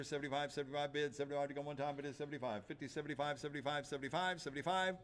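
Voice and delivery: rapid auction bid chant; auctioneer. Acted. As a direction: rattle off the bids. Auctioneer calling bids.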